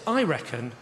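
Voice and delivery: deadpan. Retold or imitated. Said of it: "I said".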